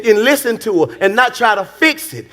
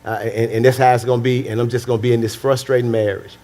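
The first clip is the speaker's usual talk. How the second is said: frustrated wife; 6 semitones lower than usual. Acted. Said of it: "they just go through their marriage frustrated".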